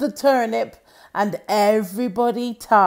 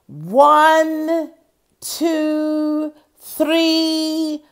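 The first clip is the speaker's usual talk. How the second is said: higher, steady call of the count; counting to pull; 7 semitones higher, 5 dB louder, much slower than usual. Acted. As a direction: lead the team in a heave. Counting to heave together.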